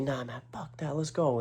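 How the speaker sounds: high, soft mock challenge; imitated challenge. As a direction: mimic him spoiling for a fight, kept quiet. Acting out aggressor picking a fight.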